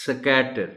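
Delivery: سکیٹر broken as "suh-KAT-er"; سکیٹر as learners say it, S split from K; child's mispronunciation. Retold or imitated. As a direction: put a vowel between S and K in سکیٹر. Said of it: "یہ غلط ہو جائے گا".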